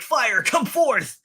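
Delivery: high, slow, drawn-out spell call; dramatic incantation. Retold or imitated. The injured mage trying to summon fire, high and slow. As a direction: drag out the command like a straining wizard. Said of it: "he's like".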